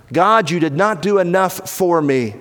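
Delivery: bitter accusation. Acted. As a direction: fling the blame up at God. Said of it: "What should you not say to Jesus".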